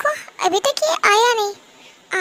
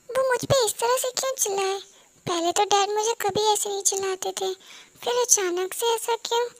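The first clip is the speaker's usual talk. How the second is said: quiet; 5 dB quieter than usual. Acted. अकेले में खुद से बात.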